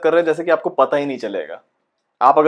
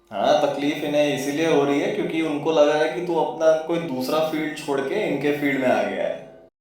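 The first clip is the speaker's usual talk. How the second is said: quieter, needling second voice; knowing taunter; 2 semitones lower, 3 dB quieter than usual. Acted. Second voice tells the actor why they resent him, quiet knowing aside. Second voice explains their grudge.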